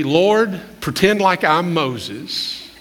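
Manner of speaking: mock Moses prayer to part traffic. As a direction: play it like a cheeky bargain with God. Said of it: "I wanted to pray".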